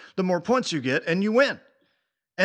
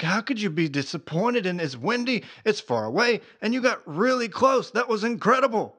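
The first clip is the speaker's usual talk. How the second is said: retold disbelief, pitch climbing higher; incredulous re-enacted praise; 5 semitones higher than usual. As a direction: protest in amazement, building as it goes. Acting out his disbelief at her.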